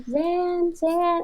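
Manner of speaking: high, soft call; nice, patient mom. Retold or imitated. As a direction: imitate a mother calling sweetly. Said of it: "your mom will be so nice".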